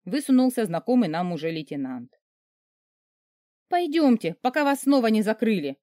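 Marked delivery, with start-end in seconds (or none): 3.7-5.8 высокая, громкая мольба; умолять поскорее уйти; взмолилась. Acted. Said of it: "уже взмолилась я". (героиня умоляет начальника уйти, высоко и громко)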